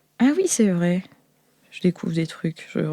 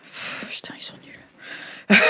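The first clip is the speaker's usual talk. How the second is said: whispered aside; 11 dB quieter, slower than usual. Real, not acted. Aside whisper about the dice.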